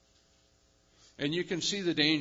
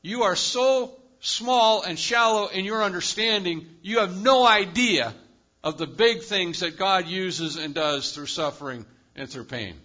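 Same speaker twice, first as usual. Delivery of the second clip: retold rebuke; 2 semitones higher, 6 dB louder than usual. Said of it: "I said".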